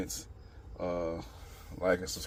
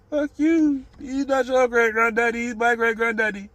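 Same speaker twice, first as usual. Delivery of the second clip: mock Jewish accent, much higher and louder; bad Jewish accent; 7 dB louder than usual. Vlogger mocking a quarrel over Abraham in bad Jewish accent. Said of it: "That was a bad Jewish accent".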